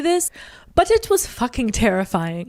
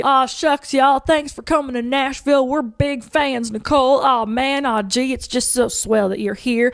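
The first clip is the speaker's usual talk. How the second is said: super friendly. Retold or imitated. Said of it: "like, super friendly".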